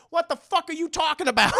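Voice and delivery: loud, high laughing outburst; laughing disbelief. Real, not acted. Mocking a rapper's hypocrisy, laughing loudly. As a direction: laugh at how absurd it is. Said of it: "incredulous laugh".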